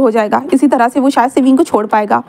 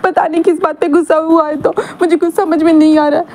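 higher, tearful complaint; crying; 4 semitones higher than usual. Acted. Wing to his two friends, higher tearful voice. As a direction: whimper it out through tears. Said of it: "ज़ोर-ज़ोर से रोने लगता है".

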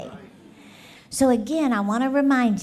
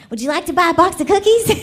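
put-on eager little girl, laughing; 6 semitones higher, 8 dB louder, much faster than usual. Girl pitching cookies again next day.

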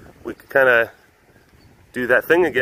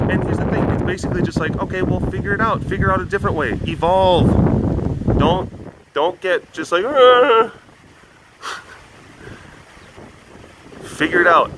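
higher, brisk get-over-it tone; blunt advice; 7 semitones higher than usual. Pretend. Telling the old animal to adapt, briskly. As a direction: tell them flatly to adapt.

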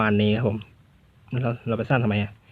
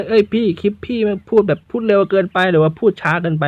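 higher, playful voice of a viewer; host voicing a viewer's complaint, lightly higher; mock viewer comment; 6 semitones higher than usual. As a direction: pretend to be a fan giving feedback. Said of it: "มีคำติชมยังไงว่า".

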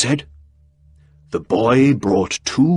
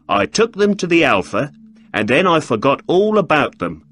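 a hint of an irritated shopkeeper, higher; annoyed shopkeeper; 4 semitones higher than usual. Breckinridge complaining to Holmes about questions, mildly irritated. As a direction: grumble it out, quicker toward the end.

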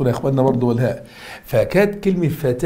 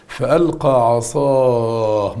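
very slow recitation; much slower than usual. Shown as a demonstration. Teacher slowly reciting فألقى عصاه for students. Slow verse demo, stretched.

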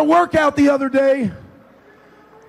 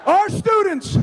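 hyped-up shout; 4 semitones higher than usual. Real, not acted. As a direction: hype up the students. Coach hyping student section.

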